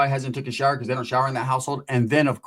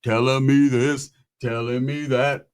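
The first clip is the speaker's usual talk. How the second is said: mock deep soul-singer voice; 3 semitones lower, slower than usual. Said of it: "he thinks it's the soul-singer voice".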